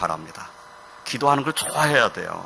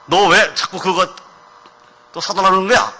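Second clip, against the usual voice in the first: scolding parent; 5 semitones higher than usual. Retold or imitated. Preacher voicing a parent scolding a child who begs, mock stern. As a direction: play a parent scolding a nagging child, lightly hammed. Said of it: "하고 꾸짖을 수 있어요".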